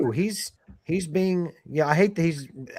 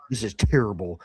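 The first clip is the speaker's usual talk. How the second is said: low, gloomy mumble; Eeyore; 8 semitones lower than usual. Acted. Co-host imitating her absent husband, gloomy Eeyore voice. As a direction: sink into a deep, dejected grumble. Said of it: "he's like Eeyore".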